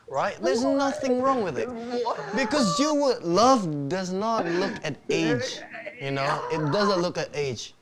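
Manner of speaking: put-on speech in an Australian accent. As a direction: deliver it like an Aussie speaker. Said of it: "menggunakan aksen Australia".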